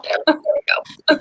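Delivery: slow breathy whisper. Real, not acted. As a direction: breathe it out slowly under your voice. Repeats phrase, second whispered.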